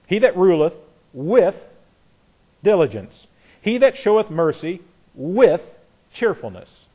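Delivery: with leaned on at each clause; stress on with. Shown as a demonstration. Teacher marking the shift to with for the class, stressing with. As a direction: give with extra weight each time. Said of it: "the way he talks about these shifts".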